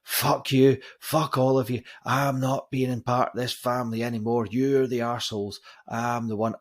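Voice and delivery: loud, high retold outburst of rage, fading to a steady shout; furious rant. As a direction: lose it completely and yell at the whole family. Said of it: "And he just lost it".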